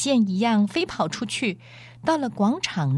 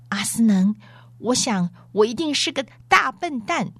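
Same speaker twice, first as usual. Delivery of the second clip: higher, shaken and humbled; trembling voice; 6 semitones higher, 4 dB louder than usual. A narrator's reading. Bree admitting his foolishness, voice trembling. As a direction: stammer out a frightened confession. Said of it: "不留吓得声音发抖".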